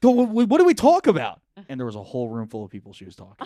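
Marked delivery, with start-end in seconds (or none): 0.0-1.4 stammering loud yell, much higher; drunk shout. Retold or imitated. Drunk boyfriend yelling at girlfriend in front of a roomful of people. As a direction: shout it stumbling over the first word. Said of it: "What really happened was I went".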